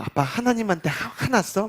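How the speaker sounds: put-on high child voice. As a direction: ask it like a small curious child. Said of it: "막 그러는 거예요". (어린 아들 흉내, 높은 목소리로)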